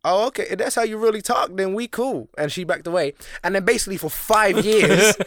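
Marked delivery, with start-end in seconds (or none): 0.0-2.3 higher Black American voice, lightly put on; imitated Black American woman. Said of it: "she talked real black".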